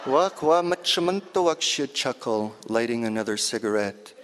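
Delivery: lightly voiced lively old auntie; auntie's voice. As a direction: tell it as your auntie would. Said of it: "this piece is in my auntie's voice".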